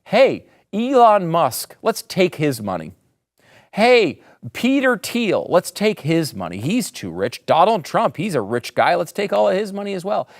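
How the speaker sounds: mocking voice of an eat-the-rich crowd; mocking left voice. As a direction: parody the greedy crowd. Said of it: "sit back and say".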